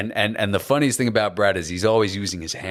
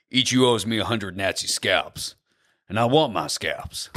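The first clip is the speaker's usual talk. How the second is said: Brad Pitt impression. Shown as a demonstration. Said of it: "there's a line where he goes".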